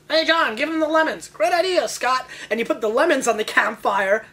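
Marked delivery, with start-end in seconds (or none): 0.1-1.3 a higher, brighter-pitched camp leader calling out; scout leader voice. Pretend. Scout leader handing out lemons. 1.3-2.3 high, keen yes-man reply; eager scout voice. Pretend. Scout answering the leader.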